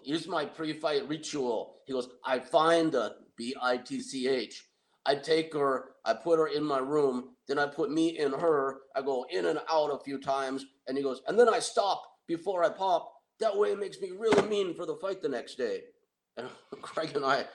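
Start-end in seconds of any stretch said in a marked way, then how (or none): 0.0-10.7 Tony voice. Retold or imitated. Tony explains ritual. 11.3-15.8 high boastful put-on voice; Tony voice. Tony explains ritual.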